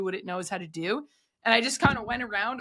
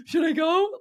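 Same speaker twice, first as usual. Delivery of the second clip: higher and louder, giddy hesitation; nervous excitement; 8 semitones higher, 5 dB louder than usual. Pretend. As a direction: ask it like you're on the cliff edge, thrilled. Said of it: "where you're like".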